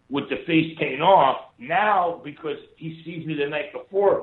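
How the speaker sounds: normal talking voice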